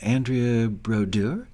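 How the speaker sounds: slow, questioning try at French "Brodeur"; attempted French accent. Shown as a demonstration. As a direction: try the name with a French accent, rising at the end. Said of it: "That's my best French accent".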